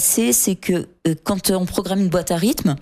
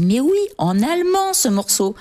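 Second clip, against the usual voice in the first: sudden idea; 6 semitones higher than usual. Retold or imitated. Singer recalling her idea for the song, excited eureka. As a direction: burst out much higher with a sudden eureka.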